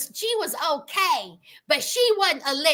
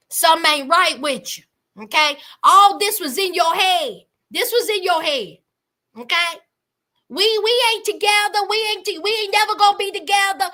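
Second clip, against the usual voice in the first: dismissive put-down; 4 semitones lower, 3 dB louder, faster than usual. Retold or imitated. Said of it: "And Julia says".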